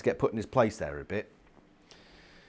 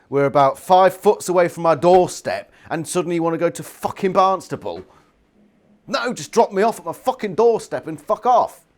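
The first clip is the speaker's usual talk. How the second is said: acted indignant outburst, pitch raised; pissed off; 5 semitones higher, 5 dB louder than usual. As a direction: protest like a fed-up passenger refusing a detour. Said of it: "Chapman is rightfully pissed off".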